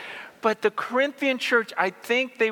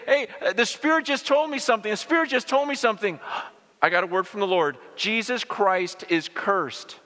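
mocking false prophet. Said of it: "people in the church that would say".

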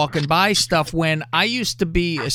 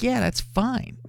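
Razor; 7 semitones higher, 6 dB quieter, slower than usual. Retold or imitated. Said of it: "her voice sounded like she gargled with razor blades".

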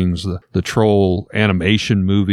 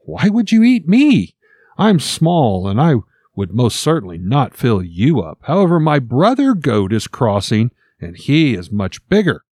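little goat voice; 3 semitones higher than usual. Acted. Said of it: "the clever young goat quickly responded".

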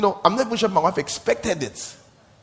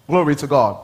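preaching call; 6 dB louder than usual. Real, not acted. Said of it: "preaching call to congregation".

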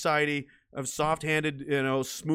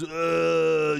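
drawn-out slack groan, louder; disgusted groan; 4 dB louder than usual. Acted. Mimics a weak, flabby body.

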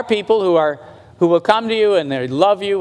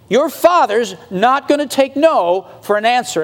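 raised-pitch, insistent preacher delivery; emphatic preaching; 5 semitones higher than usual. Real, not acted. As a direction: drive each promise home to the congregation. Preaches God's determination at full force.

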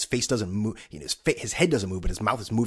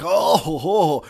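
mock chuckle; 8 semitones higher, 10 dB louder, much slower than usual. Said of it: "everyone's like".

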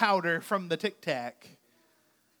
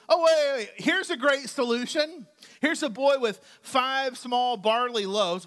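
mock excitement; 3 semitones higher than usual. Disciple voiced excitedly offering.

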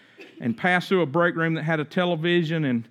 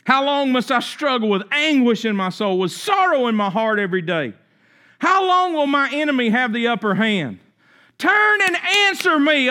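pleading psalm reading; 4 semitones higher than usual. Acted. Preacher opening the sermon, reading a lament as an anguished plea. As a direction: lament read with rising anguish, crying out at turn and answer me.

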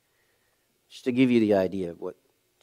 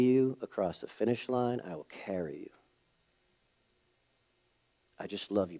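tender apology. Retold or imitated. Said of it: "So all I did was".

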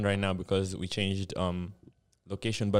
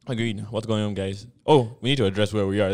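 ordinary delivery

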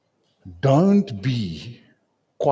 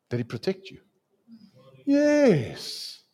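ordinary delivery

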